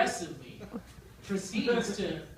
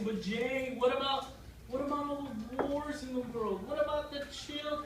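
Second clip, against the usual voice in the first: lightly voiced worried objectors, pitched up; objecting people, imitated; 4 semitones higher than usual. People objecting to his selfish wish, mildly pleading. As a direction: plead a little higher, as a mock critic. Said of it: "I'll hear people say".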